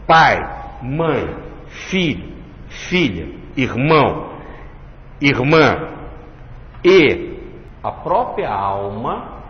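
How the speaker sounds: each word weighed, slow and firm; slow, heavy scripture reading; stronger intonation. Shown as a demonstration. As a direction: read it out like a solemn list.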